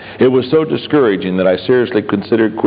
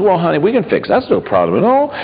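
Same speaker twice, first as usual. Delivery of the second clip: calm fix-it tone; 4 semitones higher, faster than usual. Retold or imitated. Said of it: "I'd just calmly say".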